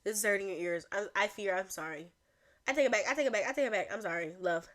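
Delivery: apologizing in a put-on English accent; amateur English accent. Shown as a demonstration. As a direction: attempt British English, sheepishly. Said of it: "I want to improve my English accent".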